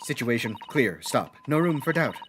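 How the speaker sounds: low, choppy telegram dictation; telegram-style juror. Acted. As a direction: dictate it like a telegram, each stop separate. Voices juror speaking in telegrams.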